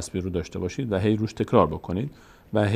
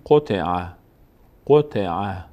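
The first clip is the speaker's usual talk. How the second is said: syllables run together as one word; read joined up; 3 semitones lower, much slower than usual. Shown as a demonstration. Teacher puts the word together for beginners, joined-up reading. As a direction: blend the three syllables with no gaps, then repeat. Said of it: "اگه سر هم بخونیم".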